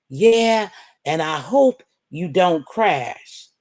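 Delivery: slow, drawn-out fake well-wishing; mocking sweet quote. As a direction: drag out "and I hope you don't crash" with sarcastic sweetness. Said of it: "They had a nerve to write me".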